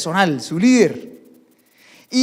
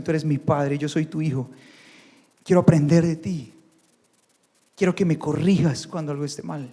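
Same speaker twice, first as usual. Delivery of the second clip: earnest prayer; 3 semitones lower than usual. Acted. Couple praying to God to lead their marriage, humble prayer. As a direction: pray humbly as if alone with God.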